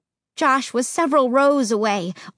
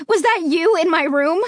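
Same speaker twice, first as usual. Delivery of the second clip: crying out; 5 semitones higher than usual. Acted. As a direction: cry out in fear. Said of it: "I cried".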